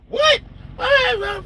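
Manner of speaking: very high squeaked disbelief; acted-out falsetto astonishment; shocked reaction.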